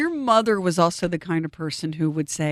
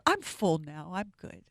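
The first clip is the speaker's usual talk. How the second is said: mock frail mother; 5 semitones lower, 9 dB quieter than usual. Voicing the mother, trailing off.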